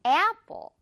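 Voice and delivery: long e-ah opening on apple; rubber-band A. Shown as a demonstration. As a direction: demonstrate apple with a pulled, gliding A. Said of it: "에야 같은 느낌이라서".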